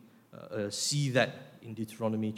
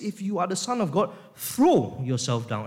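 imperative command; 5 semitones higher, 4 dB louder than usual. Acted. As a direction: order it, leaning hard on throw. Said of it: "in the tone of a command".

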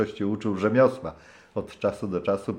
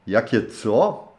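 menacing question; 2 semitones higher, slower than usual. Acted. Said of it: "zapytał groźnie".

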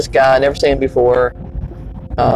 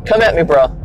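tough dog voice; 4 semitones higher, faster than usual. Retold or imitated. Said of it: "Blue was, like, huffing up".

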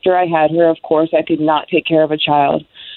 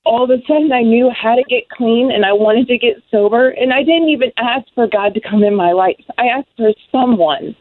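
real emotion lifting the voice higher; moved and awed, voice pitched up; emotional; 3 semitones higher than usual. Real, not acted. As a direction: testify while genuinely overcome with feeling. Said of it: "I get so emotional".

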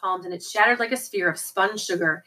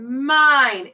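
drawn-out, swelling possessive claim; a cutting voice from underground; cutting villain voice; 4 semitones higher, 4 dB louder than usual. A narrator's reading. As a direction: stretch the word long, a little raised. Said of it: "no other voice on earth that could cut so deep".

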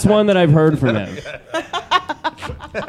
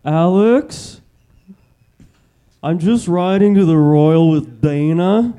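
impression of Alex; 3 dB louder, slower than usual. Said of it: "do your impression of me".

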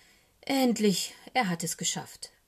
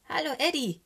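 higher-pitched cheery call of hello; 8 semitones higher, 4 dB louder than usual. A narrator's reading. Little raven greets Eddie Bär, calling out. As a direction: call it out to a friend, high. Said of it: "ruft er".

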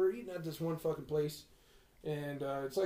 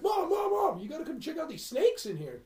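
calling mom; 10 semitones higher than usual. Retold or imitated.

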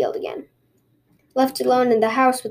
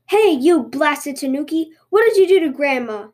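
angry shout; 3 semitones higher, 3 dB louder than usual. Acted. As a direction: yell at the fleeing tanuki. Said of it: "he shouted".

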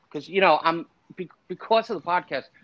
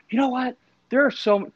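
put-on North London accent; 8 semitones higher, 4 dB louder than usual. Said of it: "imagine I'm, you know, doing an North London accent".

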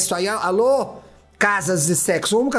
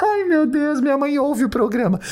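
shocked shriek; 7 semitones higher than usual. Real, not acted. Worried her mother hears the show, a high shocked shriek. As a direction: shriek in mock horror.

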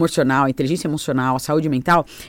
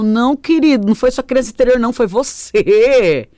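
firme; 3 semitones higher, 4 dB louder than usual. Retold or imitated. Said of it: "E aí eu falo".

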